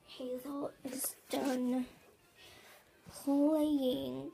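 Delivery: slow hushed whisper. Real, not acted. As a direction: whisper it slowly. Whispering about baby nearby.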